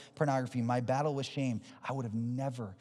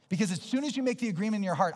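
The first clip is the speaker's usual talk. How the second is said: fast, high sermon warning; quick, raised preacher's voice; forceful preaching; 8 semitones higher, 5 dB louder, faster than usual. Acted. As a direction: warn them with rising urgency.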